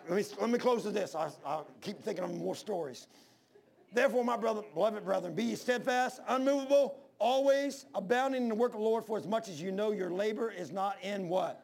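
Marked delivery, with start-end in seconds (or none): 3.9-11.3 scripture recitation. Acted. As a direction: proclaim the verse to the congregation.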